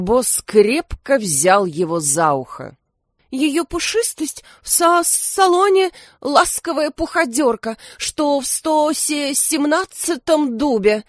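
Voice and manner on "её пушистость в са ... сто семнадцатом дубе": much higher nervous crow voice, stumbling; stammering mumble. A narrator's reading. Frightened crow secretary answering the detective, stammering. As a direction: stammer it out wide-eyed and flustered. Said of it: "слегка заикаясь, пробормотала Кармелия".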